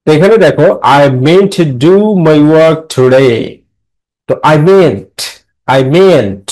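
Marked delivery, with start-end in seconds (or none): 1.0-3.4 slow line with stressed "meant", "work" and "today"; measured teacher's model of stress on "meant", "work", "today"; stress and intonation demo. Shown as a demonstration. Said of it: "ইন্টোনেশনের ব্যবহার করতে বলছে". 4.5-5.2 "meant" stressed with a falling tune; light "I", weighted "meant". Shown as a demonstration. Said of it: "এই মিনটা হচ্ছে stress syllable". 5.8-6.5 "meant" stressed and falling. Shown as a demonstration. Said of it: "এই মিনটা হচ্ছে stress syllable".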